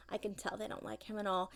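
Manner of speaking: whisper. Real, not acted. Gossiping to her child about the vet staff in a whisper. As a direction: hush it like a secret.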